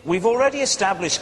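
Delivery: ordinary delivery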